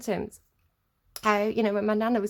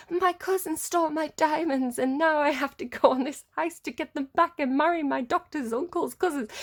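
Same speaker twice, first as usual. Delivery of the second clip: soap opera melodrama; 6 semitones higher than usual. Retold or imitated. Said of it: "it's, like, really dramatic".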